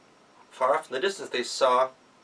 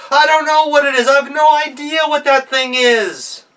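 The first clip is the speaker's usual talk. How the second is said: furious outburst; 14 semitones higher, 13 dB louder than usual. Acted. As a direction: explode with temper. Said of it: "lost his temper".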